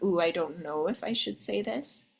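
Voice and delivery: soft, hesitant, a little coy; coy hesitation. Shown as a demonstration. Coach demoing a coy hesitant line for the ladies. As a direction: tease it out like you're unsure you should say it. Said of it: "and say it like that, a little".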